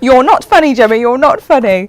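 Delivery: put-on South African accent. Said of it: "In my thick South African accent".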